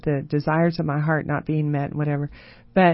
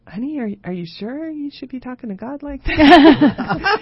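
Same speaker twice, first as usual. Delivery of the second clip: laughing quote; 9 semitones higher, 7 dB louder than usual. Retold or imitated. Husband voiced, laughing.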